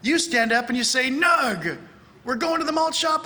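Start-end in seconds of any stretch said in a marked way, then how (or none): 1.1-1.8 loud, higher code-word shout; mock code call. Acts out answering the secret code. 2.2-3.2 high-pitched eager announcement; mock excitement. Acts out the eager code reply.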